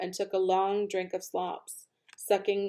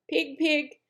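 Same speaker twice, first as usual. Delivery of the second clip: higher, gentle coaxing call; kind voice; 7 semitones higher than usual. Acted. Farmer coaxing the pig back home, kind and high. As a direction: coax the pig kindly. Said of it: "in a kind voice".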